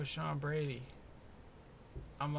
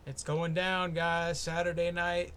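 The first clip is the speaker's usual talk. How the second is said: hyped; 3 semitones higher, 7 dB louder than usual. Real, not acted. Hyped announcement.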